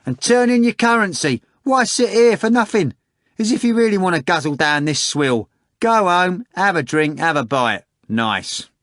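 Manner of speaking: very high, loud hawker's shout; a cook yelling at the audience to hand in currency. Acted. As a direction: holler it at the spectators like a market cook. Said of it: "the cook shouted".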